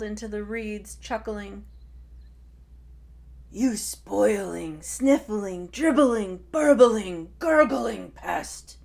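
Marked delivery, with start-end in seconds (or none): 3.5-8.8 building ever louder bellow of insults. Acted. Tai loses patience with his sister, building bellow. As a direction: stack each insult louder. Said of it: "he bellowed".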